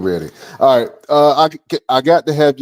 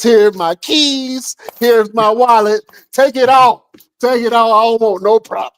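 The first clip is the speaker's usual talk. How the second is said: high-pitched play terror; mock panicked surrender; 12 semitones higher, 3 dB louder than usual. Host reacting to guest's threat, mock scared pleading. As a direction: plead like a comically scared mugging victim.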